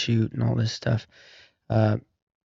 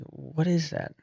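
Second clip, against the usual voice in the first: quiet, higher-pitched puzzled aside; hushed question; 6 semitones higher, 6 dB quieter, slower than usual. Retold or imitated. Hunter to his buddy over a growing rumble, hushed. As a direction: ask it softly, voice lifting in puzzlement.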